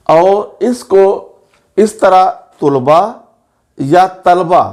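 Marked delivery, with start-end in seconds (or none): 2.6-3.0 तुलबा as tul-ba, u in front; mispronunciation demo. Shown as a demonstration. Teacher warning of a misreading, तुलबा as tul-ba. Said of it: "पढ़ना भी गलत है". 4.3-4.6 तलबा as tal-ba, no vowel after ल; mispronunciation demo. Shown as a demonstration. Teacher warning of a misreading, तलबा as tal-ba. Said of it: "पढ़ना भी गलत है".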